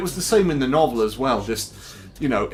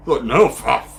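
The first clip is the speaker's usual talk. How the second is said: sudden panicked outburst; startled, blurting it out; startled laugh and curse; 5 semitones higher, 6 dB louder, slower than usual. Real, not acted. Startled by shotgun guy.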